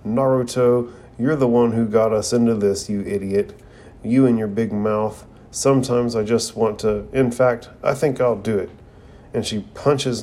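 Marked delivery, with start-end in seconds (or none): 0.1-8.7 mild mock scolding. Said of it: "Sakura comes down on Naruto yelling".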